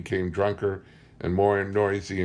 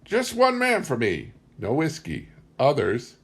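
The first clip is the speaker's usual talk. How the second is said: put-on old tribeswoman; 8 semitones higher than usual. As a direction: speak as the last of her tribe, high and old. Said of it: "She said".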